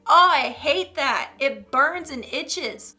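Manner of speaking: slow, wincing sympathy; pained sympathy. Real, not acted. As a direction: wince at the bites. Ant bites.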